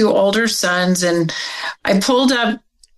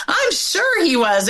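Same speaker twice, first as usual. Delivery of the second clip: high, matter-of-fact certainty; certain mother; 9 semitones higher than usual. Retold or imitated. Mother's one certain moment, flat and sure. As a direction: repeat it as plain fact. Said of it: "That's the only time she said that".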